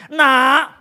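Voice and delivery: put-on loud, high, booming voice of God speaking to his child. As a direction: thunder it out as God gently rebuking his son. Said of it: "Tuhan ngomong sama saya".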